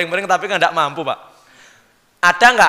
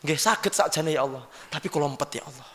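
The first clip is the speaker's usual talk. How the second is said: humble official answering; 5 dB quieter than usual. Acted. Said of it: "Hei, kepala dinas".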